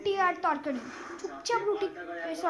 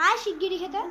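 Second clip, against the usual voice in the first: stern call; 2 semitones higher, 3 dB louder than usual. Acted. Mother calling child to eat.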